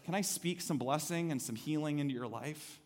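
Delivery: soft, slowing invitation; gentle quiet voice of God. Retold or imitated. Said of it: "God says".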